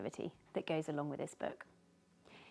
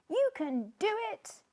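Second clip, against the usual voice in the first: higher, louder encouraging shout; cheering yell; 13 semitones higher, 4 dB louder than usual. Acted. Tiny cheering Sneezy from below, shouting. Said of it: "yelled Tiny from below".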